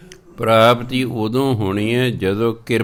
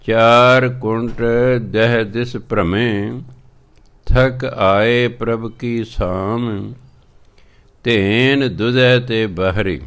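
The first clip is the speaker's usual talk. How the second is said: measured, drawn-out scripture reading; slow devotional recitation of Gurbani; slower than usual. Acted. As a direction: read each word slowly and carefully. Recites Gurbani line slowly.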